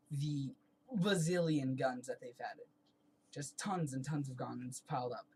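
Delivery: half-numb face, slightly slurred; numb from the dentist. Real, not acted. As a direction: talk with one side of the mouth numb. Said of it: "this entire side of my face is completely numb".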